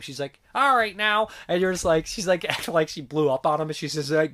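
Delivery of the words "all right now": high, loud imitation of tame scolding; barely agitated nun. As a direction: mimic a sweet nun trying to be cross. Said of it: "barely agitated sounding".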